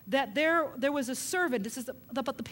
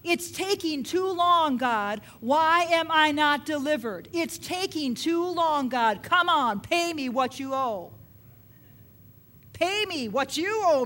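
slow, louder whining demand; a believer impatiently demanding deliverance from God; impatient complaint to God; 2 semitones higher, 4 dB louder than usual. Retold or imitated. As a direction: nag God like a creditor. Voicing our complaint to God.

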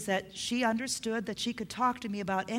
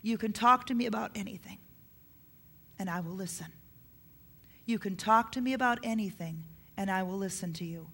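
reassuring parent; faster than usual. Shown as a demonstration. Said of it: "say words like this a lot".

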